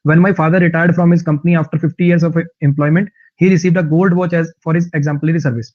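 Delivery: very slow, word by word English reading; slow dictation reading. Shown as a demonstration. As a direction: read each word out clearly for learners. Reads example sentence slowly.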